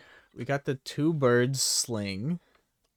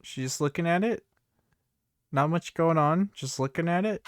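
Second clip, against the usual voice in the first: excited narration; 3 dB louder, faster than usual. Real, not acted. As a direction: call it like live sport. Narrating the cat, fast.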